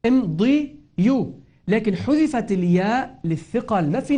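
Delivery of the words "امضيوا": امضيوا drawn out slowly, imdiyu, each sound clear; spelled-out base form. Shown as a demonstration. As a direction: stretch امضيوا syllable by syllable. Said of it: "هيدي أصل بنية الكلمة".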